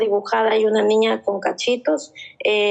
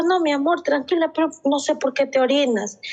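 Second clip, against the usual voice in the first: higher, gentle calming; reassuring mother; 5 semitones higher than usual. Retold or imitated. Mother retells comforting her daughter after the bedwetting, gentle. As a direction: soothe without scolding.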